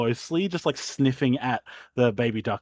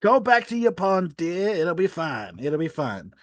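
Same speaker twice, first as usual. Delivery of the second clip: soothing landlord; 2 semitones higher than usual. Acted. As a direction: shoo her off gently. Landlord sends duck away.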